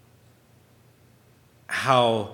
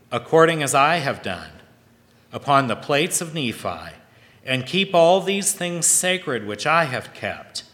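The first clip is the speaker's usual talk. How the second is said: scripture reading. Acted. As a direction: read the verse like holy writ. Reads scripture aloud.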